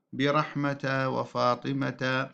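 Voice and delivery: "برحمة وفاطمة" with t plus vowel, -ata; linked ta. Shown as a demonstration. Teacher showing connected speech, "برحمة وفاطمة" with voweled t. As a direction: sound both endings of "برحمة وفاطمة" as ta. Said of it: "أما في الوصل فتكون تاء".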